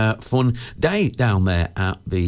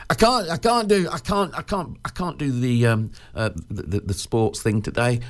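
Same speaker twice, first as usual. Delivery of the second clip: put-on whiny kid excuse; 2 semitones higher than usual. Acting out a kid's sick-note excuse.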